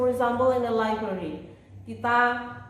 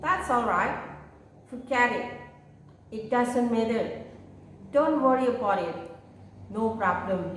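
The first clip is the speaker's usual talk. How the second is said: model responses to repeat. Shown as a demonstration. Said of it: "responnya kalian bisa mengucapkan".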